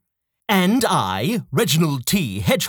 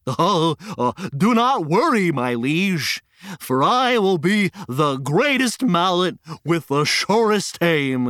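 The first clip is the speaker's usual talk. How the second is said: pompous flamingo voice. Acted. Flamingo speaks, far.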